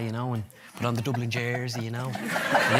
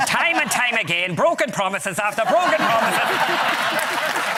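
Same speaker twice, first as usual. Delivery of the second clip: higher, louder and slow, dragged-out lament; Pierce Doherty impression; 10 semitones higher, 4 dB louder, much slower than usual. Impressionist compares his marriage to Pierce Doherty, higher and slow. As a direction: stretch each word like a wounded plea. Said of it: "Donegal's Pierce Doherty".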